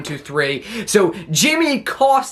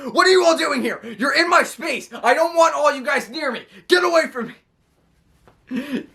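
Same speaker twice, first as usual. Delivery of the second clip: much higher, hammed-up whining; mock tantrum, pushing them all away; whiny Kevin Owens tantrum; 8 semitones higher than usual. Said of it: "Kevin Owens is like".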